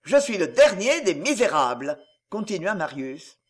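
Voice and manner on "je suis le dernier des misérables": forceful dictation. Acted. Marius dictates the humiliating words.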